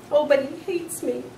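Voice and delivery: high squeaky protest; a small high squeak of dismay. A narrator's reading. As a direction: squeak it out in alarm. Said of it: "I squeaked".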